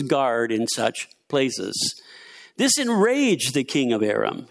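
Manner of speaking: measured, lively Bible story narration; scripture reading. A narrator's reading. Preacher reads Second Kings to the church, measured scripture reading. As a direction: read the passage out to the room.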